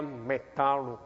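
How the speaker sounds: metal said slowly in Japanese loanword style; Japanese-style English. Retold or imitated. Pastor imitates professor's Japanese-style metal, slow. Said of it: "他怎么念呢？".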